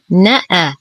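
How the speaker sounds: short نأ, quick na straight into the hamza; unstretched two letters. Shown as a demonstration. Teacher checks the last letters are not stretched, short syllables. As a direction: say نأ short, no lengthening. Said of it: "والحرف الأول من الكلمة التي تليها".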